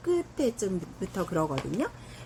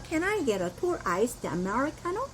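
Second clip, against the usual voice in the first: slow model order; 3 semitones higher, much slower than usual. Shown as a demonstration. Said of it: "이러면 되고요".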